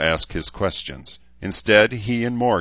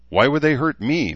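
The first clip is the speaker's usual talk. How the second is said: challenging; 8 semitones higher, 4 dB louder than usual. A narrator's reading. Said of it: "Morgan challenged".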